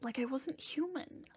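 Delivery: understated, tearful admission; cracking on a sob. Acted. Confessing to a friend he felt inhuman, near tears. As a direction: say it as if holding back a sob. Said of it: "my voice cracks on a sob".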